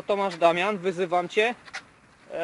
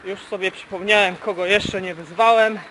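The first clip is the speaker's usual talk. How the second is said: after a workout; 8 dB louder than usual. Real, not acted. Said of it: "minuta pękła".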